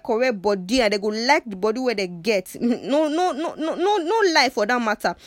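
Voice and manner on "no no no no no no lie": laughing through a playful denial; real laughter while joking. Real, not acted. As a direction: chuckle out the no, no, no. Laughing denial mid-talk.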